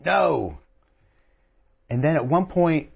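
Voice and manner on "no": high, drawn-out mock yell; retold yell. Adams yells out during the House debate, a retold yell. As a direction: cry out a long "no", without full volume. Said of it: "he yells out".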